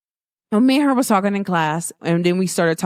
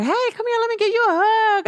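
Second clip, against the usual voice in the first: eager greeting; 14 semitones higher than usual. Retold or imitated. Loved ones greeting her.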